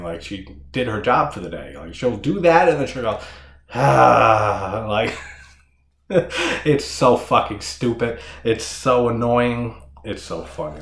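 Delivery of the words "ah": loud mock sigh after the cackle; satisfied sighing release. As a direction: imitate a big breath of fresh air. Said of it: "like a breath of fresh air".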